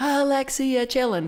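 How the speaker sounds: mock high-pitched yelling. Retelling yelling a request over a little echo dot, retelling a yell. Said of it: "And I'm yelling at this little thing".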